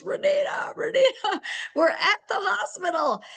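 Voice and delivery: high, breathless quoting of the frantic call; frantic excited call. Retold or imitated. Woman yelling her good news to Renita over voicemail, high and laughing. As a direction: burst in with high, laughing relief. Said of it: "screaming on my voicemail, crying".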